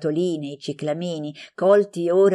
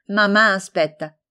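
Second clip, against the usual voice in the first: louder, lightly exclaimed reminder; exclaiming; 3 semitones higher, 5 dB louder than usual. A narrator's reading. Girl tells her friend that mother is waiting, exclaiming. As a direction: exclaim it as you hurry off. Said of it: "esclamava Maria Luisa".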